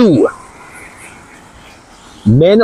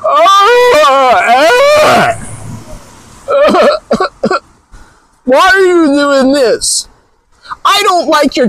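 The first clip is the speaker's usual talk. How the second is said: high, slow, whiny falsetto imitation; hammed-up high mocking voice; mock offended woman; 11 semitones higher, much slower than usual. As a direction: parody a hurt viewer in a high whine. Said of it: "they'll say things like".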